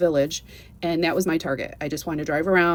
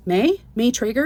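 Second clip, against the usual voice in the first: surprised recognition; 5 semitones higher, 3 dB louder than usual. Retold or imitated. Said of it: "And the elder goes".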